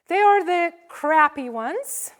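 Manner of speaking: said through a laugh. Real, not acted. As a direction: let the laugh spill into the words. Names the gift type, congregation laughs.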